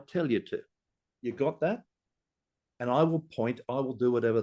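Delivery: hostile, swearing construction boss telling visitors off; aggressive site boss rant. Acted. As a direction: lay into the truck drivers like a fed-up site manager. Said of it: "I'm Peter, who's the quantity surveyor".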